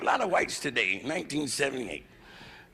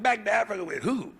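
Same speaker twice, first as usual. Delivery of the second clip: indignant question; 5 semitones higher than usual. Retold or imitated. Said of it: "I said".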